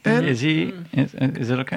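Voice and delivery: tentative, stumbling "is it okay"; hesitant question. Retold or imitated. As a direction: imitate someone checking "is it okay". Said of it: "saying it like a question".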